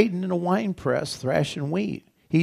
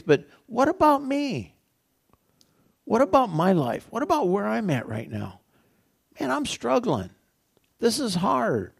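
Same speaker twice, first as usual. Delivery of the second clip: higher, pleading, a touch of despair; upset Gideon; 6 semitones higher than usual. Retold or imitated. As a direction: voice Gideon lightly, lamenting his struggle. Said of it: "he's pretty upset".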